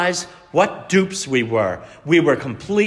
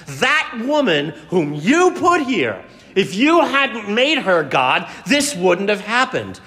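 higher, slow whining; whiny blame; 4 semitones higher than usual. Acted. Adam whines to God, blaming the woman. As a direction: pass the buck with a petulant whine.

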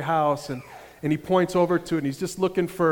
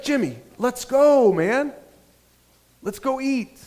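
higher, slower, exasperated urging; impatient urging; 7 semitones higher, slower than usual. Retold or imitated. Dan urging Jimmy to leave for dinner, exasperated. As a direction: drag out the let's go, fed up. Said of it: "He's like".

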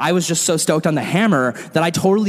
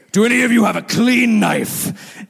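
calling out; 4 semitones higher than usual. Retold or imitated. Ken calls out to crowd.

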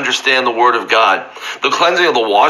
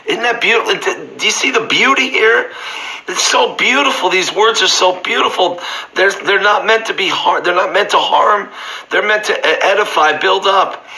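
higher, rapt preacher marvelling aloud; awed delight; 6 semitones higher than usual. Acted. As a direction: lift the voice in wonder at the words. Preacher marvels at scripture's beauty.

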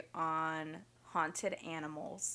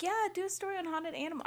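mock dumb voice; 11 semitones higher, faster than usual. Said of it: "He was like".

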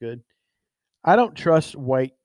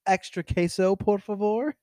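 mocked white customer; 4 semitones higher than usual. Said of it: "and they'll be like".

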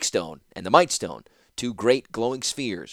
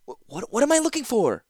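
uncertain question; 12 semitones higher than usual. Acted. Zancha stammers a question.

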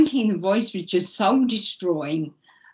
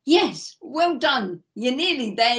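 higher, sing-song patronising well done; mock cheery praise; 4 semitones higher than usual. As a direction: imitate a chirpy official, a touch mock. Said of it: "only to be told".

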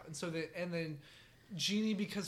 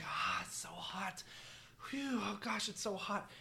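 parched whisper; 6 dB quieter than usual. Acted. Man moaning in hot desert.

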